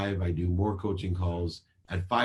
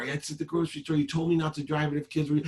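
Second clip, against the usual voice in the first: put-on much higher, girlish daughter voice; teen daughter voice; 9 semitones higher than usual. Daughter explaining to her father, high girlish voice. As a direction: play the daughter defending herself.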